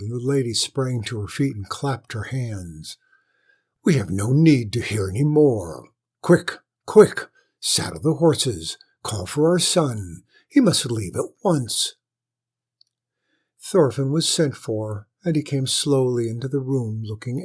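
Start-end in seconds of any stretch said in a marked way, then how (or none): 3.8-11.9 urgent orders. Acted. Lady ordering the horses saddled in a hurry. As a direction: rush the servants into action.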